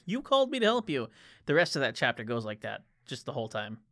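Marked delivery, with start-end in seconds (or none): 0.1-1.1 exasperated repeat. Retold or imitated. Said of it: "And then he's like".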